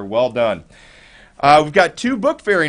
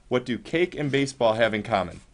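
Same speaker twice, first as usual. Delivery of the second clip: quiet repeat; 4 semitones lower, 6 dB quieter than usual. Shown as a demonstration.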